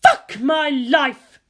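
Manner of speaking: slow, loud exasperated groan of a line; exasperated outburst. Acted. Bridge crew member reacting to Unit One, slow loud exasperation. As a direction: drag it out in loud dismay.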